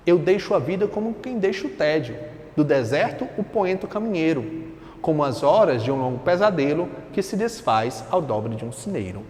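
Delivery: measured reading of verse, sinking at the close; poetry recitation. Acted. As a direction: read it out as a poem. Reads poem aloud.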